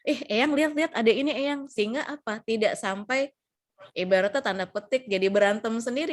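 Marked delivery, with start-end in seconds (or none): 0.0-1.7 higher-pitched, coaxing call for attention; acted "come look" diversion; distracting an elder. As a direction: draw grandparent's attention away, pitched up. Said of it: "alihkan dengan yang dia suka".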